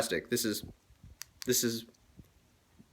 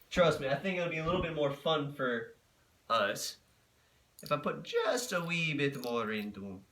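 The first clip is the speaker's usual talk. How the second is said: slipping into Irish; 4 dB quieter than usual. Pretend. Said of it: "Why the fuck am I slipping into an Irish accent?".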